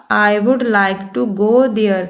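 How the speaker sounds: slow, word-by-word example sentence; slow dictation. Shown as a demonstration. Teacher reading an example to Hindi-speaking students, slow and deliberate. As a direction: read it out slowly for learners to copy. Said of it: "teacher reads English example".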